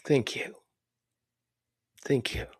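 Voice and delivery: whispered thanks. Real, not acted. Moved, thanking a listener.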